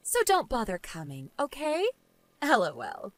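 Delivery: understated dismissive woman; unsympathetic rebuff. Acted. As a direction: coolly refuse the blame. Jane bids a mocking goodbye.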